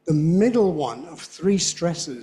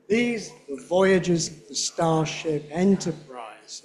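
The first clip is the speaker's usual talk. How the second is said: slow, careful line; slow careful read; slower than usual. Shown as a demonstration. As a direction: take it slowly. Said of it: "can you do it at his speed".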